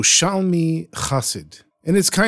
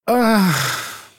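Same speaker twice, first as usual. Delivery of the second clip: sigh; 6 semitones higher than usual. Acted. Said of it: "he sighed".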